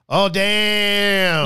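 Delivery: imitating John with a laugh; a laughing, caught-out "Oh, damn". Imitating John's laughing "Oh, damn" for a friend. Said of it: "and he goes".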